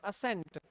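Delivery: "असेंट" said as a-SENT, silent c; pronunciation demo. Shown as a demonstration. Teacher repeating the shared sound of both words, pronunciation demo. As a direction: say "असेंट" just like assent. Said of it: "same ही pronunciation है".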